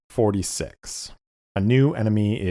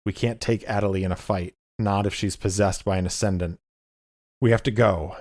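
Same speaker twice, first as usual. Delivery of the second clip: quick, pressing lightly voiced aunt; urgent wounded aunt; much faster than usual. Wounded Aurelia urging Lucius to flee, lightly voiced urgent aunt. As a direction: hurry him out, fast and firm. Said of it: "And she says".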